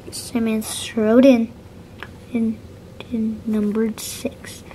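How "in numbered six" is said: whispered, slow. Acted. Reading softly to a child, whispering. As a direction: hush it like a secret.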